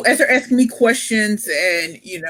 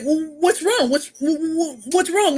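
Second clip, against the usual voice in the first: much higher, mock concerned producers; worried producers; 9 semitones higher, slower than usual. Retelling producers asking why she cried, high mock concern. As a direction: pitch it way up like a fussing producer. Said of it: "the producers were like".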